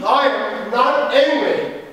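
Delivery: low, deliberate, each word spaced; slow measured denial, barely contained; stiff slow denial. Acted. Actor repeats to partner, slow and stiff. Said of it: "you are angry".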